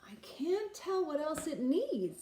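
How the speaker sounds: whispered, voiceless aside; wife hinting at the missing ingredient, whispered. Acted. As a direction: whisper it like a secret. Scheming wife.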